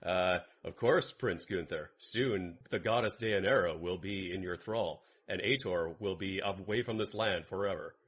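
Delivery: low, calm, even servant voice; smooth polite henchman voice; Hargan impression. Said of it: "that's my Hargan off".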